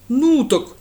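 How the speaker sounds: loud offended retort; offended grunt. A narrator's reading. Lad takes offence, loud. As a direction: huff at the question. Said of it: "обиделся детина".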